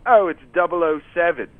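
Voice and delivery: bad British accent, mildly put on; a lightly hammed-up British accent, dry and matter-of-fact; terrible British accent. Retelling Tony Iommi's answer to the host, bad British accent. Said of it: "I do a terrible British voice".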